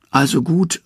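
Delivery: high-voiced Loki calling out. A narrator's reading. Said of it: "ruft Loki".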